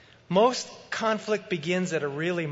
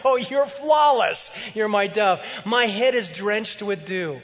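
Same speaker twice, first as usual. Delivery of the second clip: wooing husband. Acted. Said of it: "He says".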